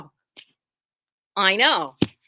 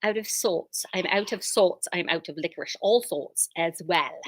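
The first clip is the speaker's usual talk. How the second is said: put-on terrible Irish accent. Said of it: "thank you for that terrible accent".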